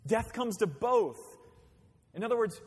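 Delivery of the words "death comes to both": drawn out, each word weighed; slow emphatic repeat. Shown as a demonstration. Preacher repeating the verse slowly to the congregation. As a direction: let the verse sink in slowly. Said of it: "repeats verse after laugh".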